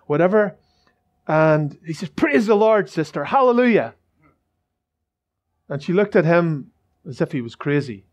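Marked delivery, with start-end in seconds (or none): 2.1-3.9 joyful praise. Retold or imitated. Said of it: "He started to rejoice and he did a dance".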